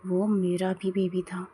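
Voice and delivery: slow, low and grave; serious tone. Acted. JK answers Tae gravely, in a serious tone. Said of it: "serious tone में".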